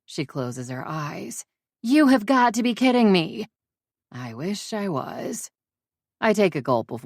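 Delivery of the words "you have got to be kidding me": disbelieving friend. Acted.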